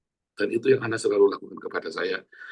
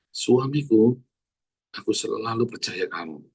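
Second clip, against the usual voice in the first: gentle sincere demo; slower than usual. Shown as a demonstration. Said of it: "Ayo para istri-istri".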